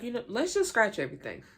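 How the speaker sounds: high, sarcastic mock of a fed-up twin; Fallon, fed up. Fallon snapping at the group over the record, high mock sarcasm. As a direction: toss the whole record back at them, mocking. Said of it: "she's like".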